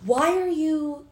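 mock exasperated mom; mom's scolding. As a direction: nag him like a fed-up mother. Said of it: "his mom is like".

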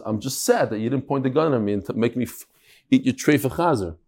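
a touch of glum regret; mildly sad. Retold or imitated. Man forced at gunpoint answers his tormentor, mildly sad. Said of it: "Why are you so sad?".

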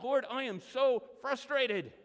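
a hint of a fed-up believer; frustrated prayer. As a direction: vent at God, exasperated. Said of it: "gone to God and said".

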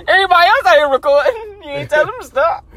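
high, loud, fast mock-Russian protest; Russian accent. Russian YouTuber arguing with people he films, high Russian accent. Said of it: "his Russian accent be killing it".

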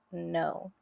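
a soft, low "No."; small frightened "No.". Acted. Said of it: "I softly said".

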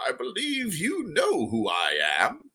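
put-on a prim old gnome merchant, unhurried. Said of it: "and he says".

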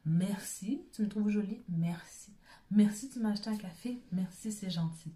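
simply accepting the compliment; gracious thanks. Shown as a demonstration. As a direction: say thank you warmly and simply. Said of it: "de dire merci".

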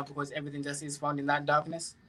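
usual speaking voice

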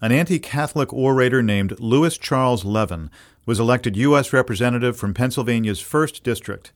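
measured documentary-style intro read with lifted key words; scripted podcast narration. Acted. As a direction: narrate the history like a polished radio host. Host reads scripted podcast introduction.

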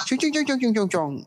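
high sing-song fake Mandarin babble; mock Mandarin gibberish. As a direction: imitate a taxi driver babbling Mandarin. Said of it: "Supir taksi boy dulu ya".

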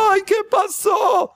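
very high, slow startled cry; startled shout. Retold or imitated. Jolted person cries out in shock, high. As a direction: wake with a shock.

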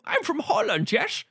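high, exaggerated mock Dutch accent; bad Dutch accent. Character saying where he's from, bad Dutch accent. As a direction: announce it in a silly, squeaky Dutch voice. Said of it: "introduce the character and remind you".

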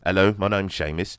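put-on British accent, lightly done; British-accented character greeting. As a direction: introduce yourself in a British accent. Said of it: "That's my British accent".

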